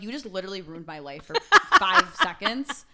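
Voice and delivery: mock complaint dissolving into laughter; laughing relief. Retelling relief after border joke.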